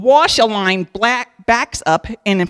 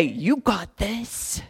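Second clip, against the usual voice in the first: mock pep talk; 8 dB quieter, much slower than usual. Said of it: "We like to say".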